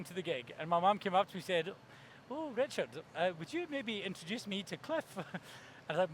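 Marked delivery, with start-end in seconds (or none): 2.3-5.0 lightly voiced, softly coaxing mom; coaxing mother. Mom shyly asks son for an introduction, coaxing. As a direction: gently wheedle a favour.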